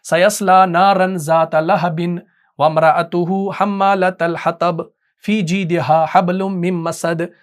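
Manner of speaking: slow, plain reading, no rhythm or melody; recitation without beauty. Shown as a demonstration. Teacher demonstrates careless reading to students, plain and slow. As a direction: rattle it off without caring for beauty. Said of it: "मैंने वो इसमें रौनक का ख्याल नहीं रखा".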